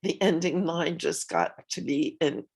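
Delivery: quiet, teary, voice catching; crying. Real, not acted. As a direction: speak softly while crying. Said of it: "I'm crying now".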